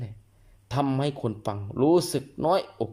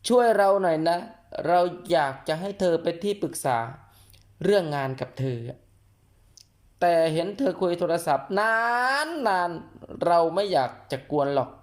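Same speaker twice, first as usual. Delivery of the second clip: gentle request; 5 semitones higher, 4 dB louder than usual. Acted. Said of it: "ลองใช้ประโยคที่นุ่มนวล".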